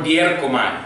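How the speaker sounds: dierkomai said clearly, falling; model Greek word. Shown as a demonstration. Teacher models dierkomai for student to repeat. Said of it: "Repíteme, por favor".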